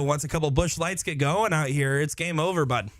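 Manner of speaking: a light attempt at a Wisconsin Midwest accent; half-hearted Midwest accent, trying it on for fun. Darts commentator joking about Wisconsin drinkers, mild Wisconsin accent. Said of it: "work on my Wisconsin Midwest accent".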